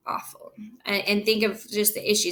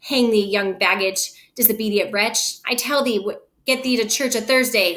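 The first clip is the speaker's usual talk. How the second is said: angry father. Acted. Capulet scolds Juliet.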